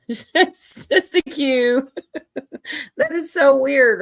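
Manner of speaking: laughing disbelief. Real, not acted.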